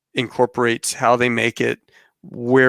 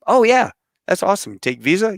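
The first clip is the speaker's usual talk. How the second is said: excited; 8 semitones higher than usual. Retold or imitated. Eager to sign up skydiving.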